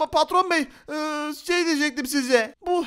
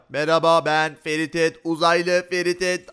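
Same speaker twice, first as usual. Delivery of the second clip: uzaylı sesi; 10 semitones lower than usual. Shown as a demonstration. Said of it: "Nasıl uzaylı gibi konuşabilirim?". (uzaylı gibi konuşma)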